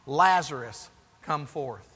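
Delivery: restrained, low retold shout; mild mock shout. Jesus calls the dead man from the tomb, half-hearted shout. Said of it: "He shouted".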